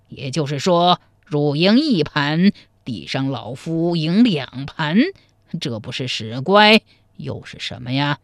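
a hint of a shrewd old player; lightly voiced old man. Narrator voices the old chess player. (略带老者腔，精明地算账)

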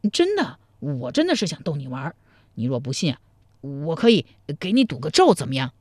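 low, mildly pleading man; teasing man, protesting. Acted. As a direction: coax her, lightly in character.

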